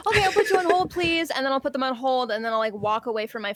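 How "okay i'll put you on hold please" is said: fake polite phone voice. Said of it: "easy to be like".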